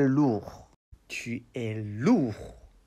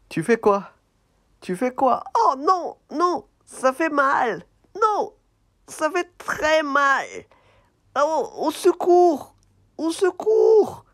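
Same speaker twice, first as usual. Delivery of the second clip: very high, loud mock wailing; hammed-up cries of pain; 4 dB louder than usual. Puppet squeals for help while the elephant brushes it. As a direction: ham up a tortured puppet.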